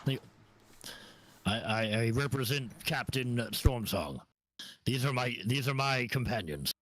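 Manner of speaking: Jethro intervening. Acted. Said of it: "Jethro comes up ... and goes".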